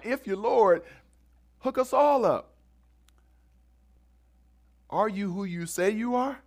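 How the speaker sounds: lightly voiced mocking challenge; taunting criminal. Criminal on the cross taunting Jesus, mild mock jeer.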